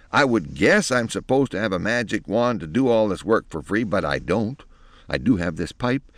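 put-on testy old fairy threatening; grumpy old crone. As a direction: grumble it like a cranky crone. Fairy godmother threatens with pipe.

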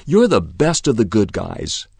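lightly eager praise; enthusiastic praise. Acted. Copy praising Winky, mildly enthusiastic. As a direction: praise the boy gladly. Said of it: "said Copy enthusiastically".

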